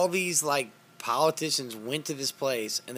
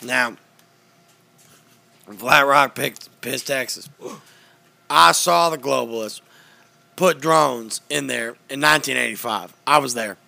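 lightly voiced, louder ranting host; Alex Jones impression; 5 dB louder than usual. Doing Alex Jones for friends on a podcast, mild loud rant. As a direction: rant on with mock certainty. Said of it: "This is Alex Jones reporting to you".

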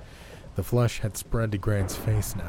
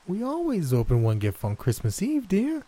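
growling granny; 11 semitones higher than usual. A narrator's reading. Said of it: "practically growled".

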